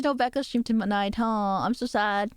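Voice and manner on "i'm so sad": slow, sarcastic mock sadness; deadpan fake sorrow. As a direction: drag it out without meaning it. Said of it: "That sounds really sarcastic".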